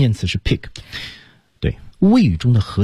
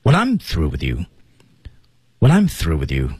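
"I'm" raised, then coming down through "with you"; pitch peak on I'm. Shown as a demonstration. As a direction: lift "I'm" above "when" and "through". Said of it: "音调的高低在I am这块儿".

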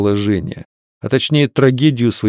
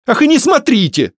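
high, loud, offended outburst; hurt flare-up; 4 dB louder than usual. A narrator's reading. Varya flares up at Osokin's pity, high and hurt. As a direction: snap back, stung and offended. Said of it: "обиженно вспылила она".

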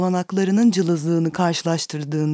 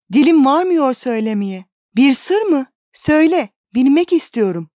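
higher, pressing plea to his sweetheart; anxious young lover; 5 semitones higher, 4 dB louder than usual. A narrator's reading. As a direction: beg her to tell the secret. Pleading lover asks secret. (merakla yalvaran genç aşık)

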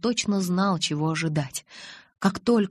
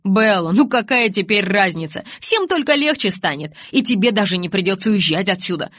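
lightly voiced young man, louder; a hint of reckless Jacob; 7 dB louder than usual. Jacob argues with Bella.

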